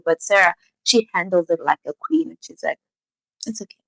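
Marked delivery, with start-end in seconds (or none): 3.5-3.8 very soft, composed reply; unruffled. Retold or imitated. Sarah to Yeojin after the slap, quietly composed. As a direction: say it softly, like a queen. Sarah calmly handles being slapped.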